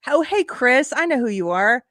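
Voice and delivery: surprised, happy hello; surprised greeting. Real, not acted. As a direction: greet him like you just spotted a friend. Recognizes a viewer.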